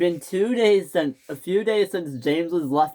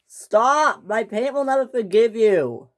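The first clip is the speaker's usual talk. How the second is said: desperate protest; 7 semitones higher, 4 dB louder than usual. Acted. James protests being pulled away.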